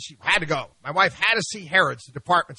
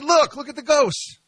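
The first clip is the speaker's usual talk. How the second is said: mock-excited pointing; 10 semitones higher than usual. Pointing out ghosts to daughter.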